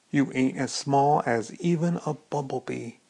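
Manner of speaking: a light, playful put-on old Ginny accent; fake Ginny accent. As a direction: tease her in a mock old Ginny accent. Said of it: "in my fake old Ginny accent".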